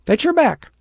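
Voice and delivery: high, loud order to the dog; loud command. A narrator's reading. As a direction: send the dog after her. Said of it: "she said, pointing".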